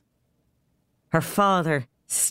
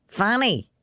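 higher call up the stairs; calling upstairs; 8 semitones higher than usual. Acted. Father calling Fanny up the stairs, raised voice. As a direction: call her name up to the landing. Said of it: "he called up the stairs".

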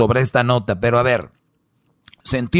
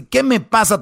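mock furious woman; 8 semitones higher than usual.

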